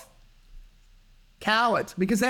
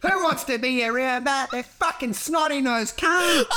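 high, hammed-up fed-up outburst; exasperated rant; 6 semitones higher than usual. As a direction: rant like you can't stand the noise another second. Acted rant of fed-up jail viewers.

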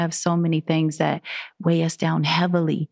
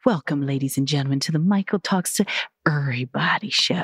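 sultry perfume ad. Pretend. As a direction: purr it like a perfume commercial. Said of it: "my real sultry voice".

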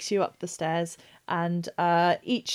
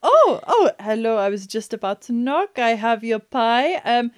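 jumping in surprise at the door; startled; 3 semitones higher, 7 dB louder than usual. Acted. GM voices surprised visitor.

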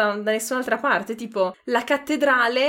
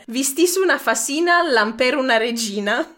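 Ferrarese dialect; 2 semitones higher than usual. Shown as a demonstration. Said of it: "spero di pronunciarlo bene".

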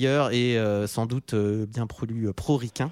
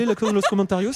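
mock Spanish; 3 semitones higher than usual. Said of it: "mal faire les langages étrangers".

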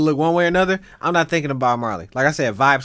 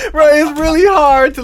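high, loud, laughing through words; laughter bubbling through the voice; 10 semitones higher, 5 dB louder than usual. Real, not acted. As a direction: talk while cracking up. Cracking up while telling story.

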